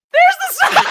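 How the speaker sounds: high, loud, laughing it out; can't hold the laughter; bursting laugh. Real, not acted. Host showing the tree photo, laughing out loud. Reveals the tiny star, cracks up.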